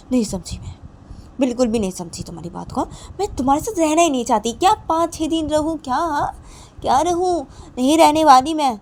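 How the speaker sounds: angry refusal. Acted. Wife flatly refuses him.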